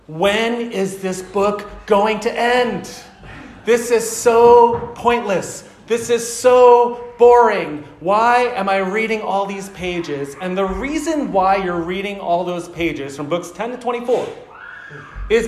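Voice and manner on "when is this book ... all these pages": slow, drawn-out bored groan of a reader. Retold or imitated. Bored reader complaining to himself about the long book, slow and drawn out. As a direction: drag it out like you can't stand another page. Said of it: "you're just thinking to yourself".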